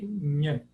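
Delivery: "Nhan" as one short "nhâ" syllable; palatal N. Shown as a demonstration. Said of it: "o N palatal". ("Nhan" com N palatal)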